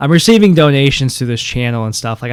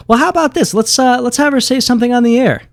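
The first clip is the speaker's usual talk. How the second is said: playful excitement; 10 semitones higher than usual. Acted. Host plays along with robot.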